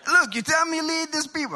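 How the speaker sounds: high-pitched attempt at a Jewish accent. Shown as a demonstration. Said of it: "Jewish accent".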